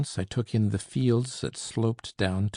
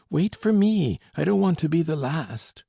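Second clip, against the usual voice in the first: much higher, loud desperate call; shouting; 8 semitones higher, 5 dB louder than usual. A narrator's reading. Uncle shouts to the narrator not to leave him behind. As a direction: yell after him, left behind. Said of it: "he shouted".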